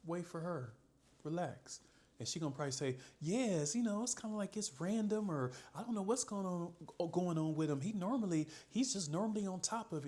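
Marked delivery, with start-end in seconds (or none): 3.2-10.1 voicing the woman. Coach voices woman's reply.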